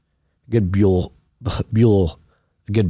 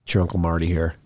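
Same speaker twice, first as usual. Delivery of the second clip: deep, rich cold-roughened voice. Real, not acted. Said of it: "Voice sounds deep and rich".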